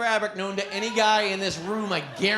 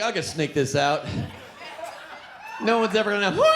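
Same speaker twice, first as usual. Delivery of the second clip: sneaky guy. Retold or imitated. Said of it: "we're like".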